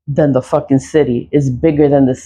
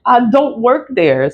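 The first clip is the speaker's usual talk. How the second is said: laughing; 6 semitones higher than usual. Real, not acted. Repeats it, laughing.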